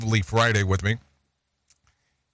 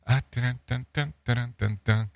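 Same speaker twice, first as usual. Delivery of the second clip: sung-out "dun dun dun" build-up; mock fanfare; 2 semitones higher, 3 dB quieter than usual. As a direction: voice a little drumroll before the joke. Mock fanfare before the random joke.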